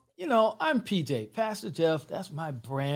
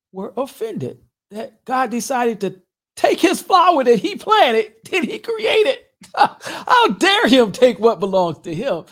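high, loud, hammed-up indignation, laughing at the end; mock outrage; 5 semitones higher, 8 dB louder than usual. Pastor teasing Tina over her grudge, mock outraged. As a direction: act out the outrage, bigger as it goes.

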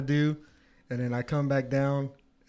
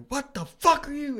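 high, startled woman's voice; older lady's startled voice; 13 semitones higher, 4 dB louder than usual. Retold or imitated. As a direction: play the startled lady, voice way up. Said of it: "I hear".

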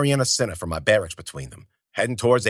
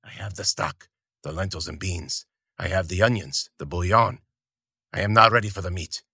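put-on old gravelly voice; 3 semitones lower, 3 dB quieter than usual. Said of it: "the gravelly voice said".

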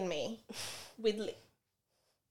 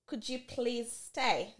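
begging; 5 dB quieter, slower than usual. Retold or imitated. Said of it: "Now I'm begging".

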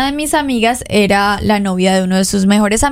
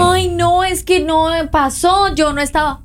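higher, pleading mock excuse; mock whiny excuse; 5 semitones higher than usual. Host mocks a crying husband's excuse, whiny and higher. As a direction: whine it like a caught boyfriend. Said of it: "no estés llorando después a decir".

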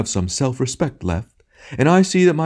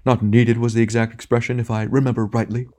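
theatrical wounded outrage, pitched up in bursts; storming; 5 semitones higher, 3 dB louder than usual. A narrator's reading. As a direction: ham tragedian's indignant tirade. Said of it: "it stormed".

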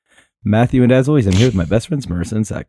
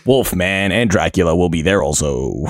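monster truck ad; slower than usual. Pretend. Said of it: "monster truck rally".

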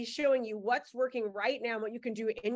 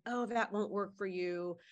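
negative inner voice; 4 semitones lower than usual. Retold or imitated. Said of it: "that negative voice in your head that says".

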